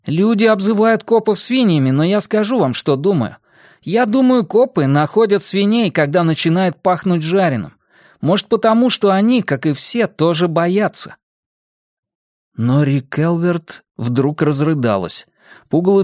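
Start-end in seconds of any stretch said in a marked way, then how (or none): 0.1-11.2 put-on high, earnest teen voice; подросток Бенни. A narrator's reading. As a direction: share your theory with friends in a raised boyish pitch. Benny's long speech in narrated story. (высокий мальчишеский голос, рассуждает)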